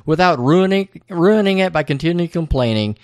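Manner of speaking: wife berating Charlie, half-acted; mock nagging rant. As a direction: rattle off her complaints. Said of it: "And Audrey's like".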